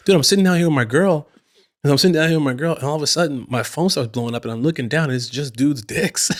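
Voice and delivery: incredulous friend. Retold or imitated. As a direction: play the stunned buddy recounting his night. Friend Dom describes his phone blowing up.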